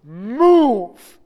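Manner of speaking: loud panicked yell of a name and an order; scream. Retold or imitated. Father screaming at son walking on railroad tracks, all-out panicked yell. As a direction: yell it like your son is about to be hit. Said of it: "and I scream".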